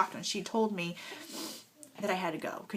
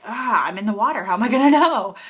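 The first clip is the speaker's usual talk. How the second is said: panicked; 3 semitones higher, 11 dB louder, faster than usual. Retold or imitated. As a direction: blurt it out in a flustered panic. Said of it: "And I was like".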